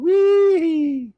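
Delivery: high, loud hammed-up Cajun impression; mock Cajun cry climbing into a long held whoop; Justin Wilson. Host mocks fake accents, hammed-up Cajun impression. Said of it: "everybody talks like Justin Wilson".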